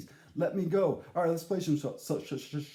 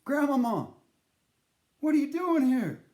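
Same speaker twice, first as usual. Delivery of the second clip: startled call; 7 semitones higher, 5 dB louder than usual. Retold or imitated. Shocked greeting to ghost grandma.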